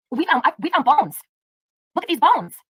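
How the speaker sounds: high-pitched parody of a thrilled discovery; mock excited reveal. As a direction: imitate someone showing off a find. Mocking the streamer's excited reveal.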